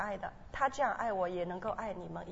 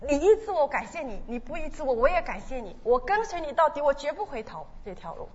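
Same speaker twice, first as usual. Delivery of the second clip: high, loud vow to the Lord; loud fervent prayer; 5 semitones higher, 8 dB louder than usual. Retold or imitated. Repeating her vow to follow the Lord, loud and fervent. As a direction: cry it out as a vow.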